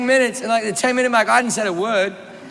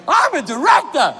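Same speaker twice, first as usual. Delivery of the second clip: high, fevered declaration; hammed-up passion, pitched way up; impassioned proclamation; 8 semitones higher, 3 dB louder than usual. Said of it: "I need more passion from you".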